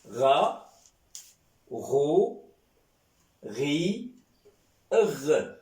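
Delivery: Ra, ro, ri and r said with a throaty gargled ghain, one by one; ghain with vowels. Shown as a demonstration. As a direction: drill the ghain through each vowel. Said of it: "On dit R".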